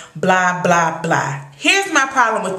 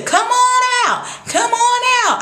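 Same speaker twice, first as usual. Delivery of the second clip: calling out; 14 semitones higher than usual. Retold or imitated. Crystal telling Jason to come on out, high calling. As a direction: imitate someone calling him outside.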